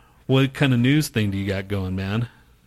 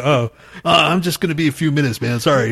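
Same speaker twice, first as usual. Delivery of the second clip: sheepish apology; 5 semitones higher, 5 dB louder than usual. Retold or imitated. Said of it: "I go".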